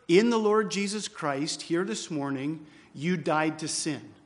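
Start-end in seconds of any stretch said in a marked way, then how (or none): 2.9-4.1 firm stress on "you", falling to "sin"; emphatic statement. Shown as a demonstration. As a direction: drive home "you died to sin". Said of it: "That is what Paul says emphatically".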